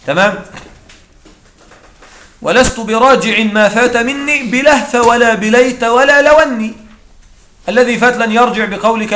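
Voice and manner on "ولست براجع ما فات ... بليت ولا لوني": measured verse reading rising at the end; reciting a classical verse, rising close; poem recital. Acted. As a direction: recite the verse with a lift on the last word. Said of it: "كقول الشاعر".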